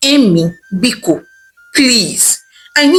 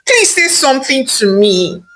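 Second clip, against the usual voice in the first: higher, pleading voice on the verge of tears; wife on the verge of tears, questioning her husband; near tears; 6 semitones higher than usual. Acted. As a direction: ask as if tears are close. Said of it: "already at the verge of tears".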